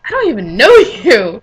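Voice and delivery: a laugh breaking into the line; laughing reply. Retold or imitated. Friend laughing that they don't know each other, amused. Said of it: "she's like".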